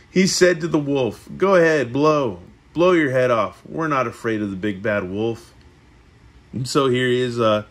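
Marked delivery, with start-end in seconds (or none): 0.1-5.5 measured read-aloud with lifted phrase openings; storybook narration. A narrator's reading. Reading the three little pigs to a listener, storybook narration. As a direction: read it like a picture book.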